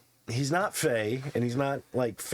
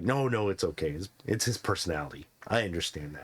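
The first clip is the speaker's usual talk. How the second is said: put-on old man voice; 8 semitones lower, 3 dB quieter than usual. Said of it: "He's like".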